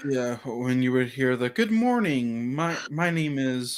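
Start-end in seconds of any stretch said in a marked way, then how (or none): 1.5-3.8 monotone principal. Retold or imitated. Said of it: "he was so boring".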